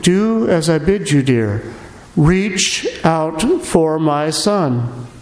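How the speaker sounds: slow, tender but firm; gentle insistence. Acted. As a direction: coax her kindly, slowly. Mary insists in legend.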